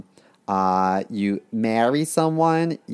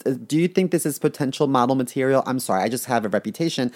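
mock picky buyer. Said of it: "I'd be like".

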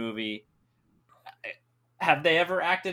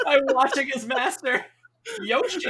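imitating Splinter; 9 semitones higher, 5 dB louder than usual. Quoting Splinter, laughing.

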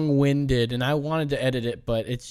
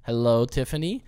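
game show host. Acted. Host voice presenting prize.

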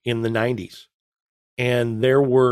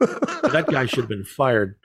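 said through a laugh, a bit slower; slower than usual. Real, not acted. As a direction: chuckle the words out as you say them. Joking about Ford designer.

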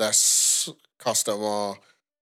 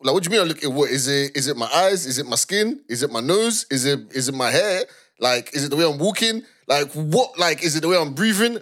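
1 anxious questioning; 4 semitones higher than usual. Retold or imitated. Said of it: "you're gonna be thinking".

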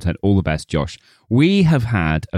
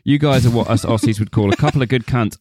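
Australian accent. Shown as a demonstration. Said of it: "I can't do this anymore".

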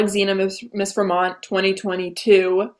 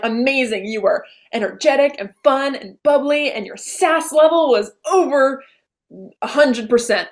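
higher, gushing mom voice; imitated mom gushing; 4 semitones higher than usual. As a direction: gush like a proud mom. Mom praising her sass.

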